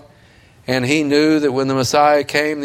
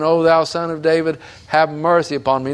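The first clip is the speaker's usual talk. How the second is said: crying out; 5 semitones higher than usual. Retold or imitated. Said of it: "He kept saying".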